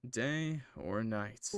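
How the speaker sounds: slow, weighted "Day or night" with "night" leaned on; emphasis on night. Acted. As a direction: draw it out and lean into "night". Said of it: "There's a strange emphasis on the last word".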